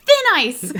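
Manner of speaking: very loud, high mock shout; imitated scream. He turns on them as they keep following him, loud imitated scream. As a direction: burst out yelling, as an imitation. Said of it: "He screams at him".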